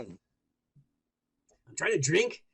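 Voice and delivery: stuffy nose voice; talking with blocked nose. Real, not acted. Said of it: "I can't breathe through my nose right now".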